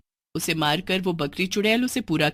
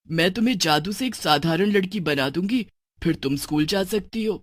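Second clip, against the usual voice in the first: lightly voiced witch mother.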